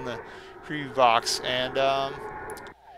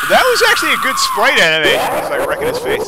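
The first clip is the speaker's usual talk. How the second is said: excited; 11 semitones higher, 10 dB louder than usual. Real, not acted. Reacts to Knuckles animation.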